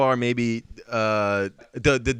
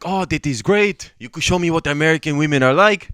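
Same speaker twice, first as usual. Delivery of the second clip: put-on French accent; 4 dB louder than usual. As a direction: play the delighted French student. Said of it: "we're talking like that".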